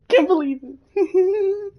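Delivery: high, slow stunned disbelief. Acted. Character stunned by what happened, slow disbelief. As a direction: drag out the disbelief.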